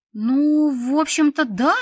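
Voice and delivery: тонко и громко, как мяуканье; робкий высокий писк, осторожно; мяукнула. A narrator's reading. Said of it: "осторожно мяукнула я". (робко мяукнула)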